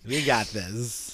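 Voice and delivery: very slow, low and soft; subdued mock reassurance. Lawyer reassuring a hopeless client, slow subdued mock confidence. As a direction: draw it out quietly, pitched low. Same lawyer line, after laughter.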